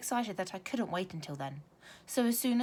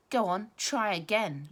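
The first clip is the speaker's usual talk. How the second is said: taunting; 3 semitones higher, 6 dB louder, slower than usual. Acted. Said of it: "launched Brendan the bully".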